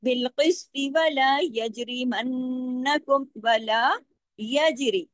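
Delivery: slow, heavy qaf and ta without stopping; Quranic recitation. Shown as a demonstration. Teacher recites the verse without pausing. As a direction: recite बिलकिस्त वला यजरिमन्नकुम flowing, qaf heavy. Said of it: "दोनों को heavy तो करेंगे".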